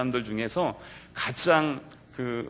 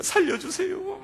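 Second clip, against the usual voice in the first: Peter sinking and crying out to be saved; a very high cry for rescue from Peter as he sinks; cry for help; 4 dB quieter, slower than usual. Acted. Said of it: "울부짖습니다".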